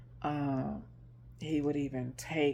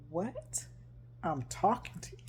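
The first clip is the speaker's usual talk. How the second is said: mildly incredulous; 3 semitones higher, 5 dB quieter than usual. Retold or imitated. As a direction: imitate his mild disbelief. Partner retold as baffled by her answer.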